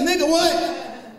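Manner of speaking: slow, high, stretched disbelief; incredulous shout. Acted. Comic reacting to cousin's prayer, high incredulous what. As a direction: drag out the disbelief.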